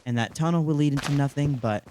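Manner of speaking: slightly muffled, stuffy voice. Real, not acted. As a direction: talk a little muffled, like under the weather. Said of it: "Apologies if my voice sounds a little muffled".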